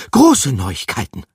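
high, loud excited rat voice; rat calling out. A narrator's reading. Rat bursting into the den, calling loud and high. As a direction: burst in shouting the news. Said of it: "rief sie".

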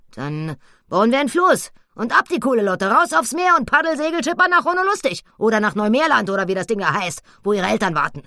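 high, loud, eager pig voice, rushing at the end; a reckless piglet full of plans; excited piglet. Acted. Annabella's wild plan. (Annabella, aufgeregt, hoch und laut)

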